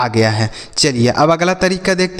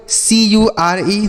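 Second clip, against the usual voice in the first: slow spelling out; 3 semitones higher, much slower than usual. Shown as a demonstration. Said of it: "सी से पढ़ेंगे क".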